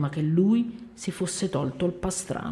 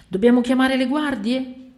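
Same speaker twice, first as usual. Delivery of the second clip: higher, louder question; worried asking; 7 semitones higher, 7 dB louder than usual. A narrator's reading. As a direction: ask it high and urgently. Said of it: "si chiedevano". (domanda acuta e concitata)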